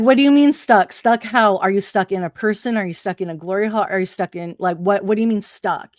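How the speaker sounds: loud, rising disbelief at a strange call; incredulous questions. Retold or imitated. To the stuck caller, loud incredulous questioning. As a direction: demand to know what stuck means. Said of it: "I'm like".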